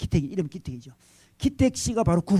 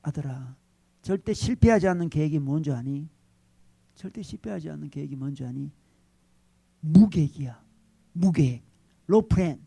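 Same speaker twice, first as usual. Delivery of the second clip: calm fatherly tone; 4 semitones lower than usual. Retold or imitated. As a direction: answer the son with resigned calm. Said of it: "아주 차분하게 아들에게 이야기하죠".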